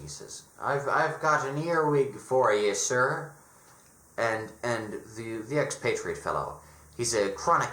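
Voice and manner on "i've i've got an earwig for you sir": rough attempt at a Dickensian English accent; lightly voiced Dickensian street peddler. Grubby peddler offers wares to a gentleman, hint of Dickensian accent. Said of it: "I don't know how to do an accent".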